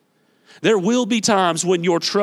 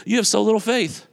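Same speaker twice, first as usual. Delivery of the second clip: smiling rebuke; 3 semitones higher than usual. Retold or imitated. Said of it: "says this with a smile".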